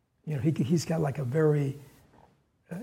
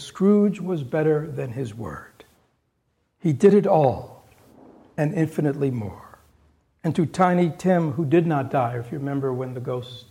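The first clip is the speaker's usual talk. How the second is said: story narration; 3 dB louder than usual. A narrator's reading. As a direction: savour the happy ending. Solemn reading of the ending.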